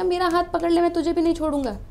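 a molecule calling to its partner; water molecule speaking. Pretend. Teacher voicing a water molecule pulling its neighbour up. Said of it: "कहेगा".

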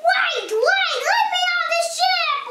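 high-pitched wail; Noddy. A narrator's reading. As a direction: wail to be let off. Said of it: "wailed Noddy".

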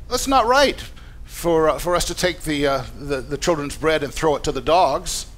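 exaggerated satirical objection, settling toward normal. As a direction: play to the crowd in mock agreement. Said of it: "into a satire".

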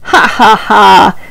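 a slow, spelled-out teasing ha ha ha; mocking laugh. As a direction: laugh down at the little mouse. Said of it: "laughed the cat".

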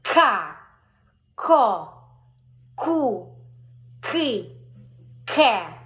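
loud, drawn-out Ко Ку Ки Ке; голосно по складах; loud syllable drill. Shown as a demonstration. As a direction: sound out each syllable for a child. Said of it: "Або без пальчика".

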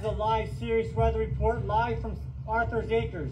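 projected. Real, not acted. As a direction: project it like a TV weather report. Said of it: "You gotta project".

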